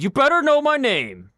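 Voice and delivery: lightly voiced teen bully demanding respect; bully kid. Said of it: "he said".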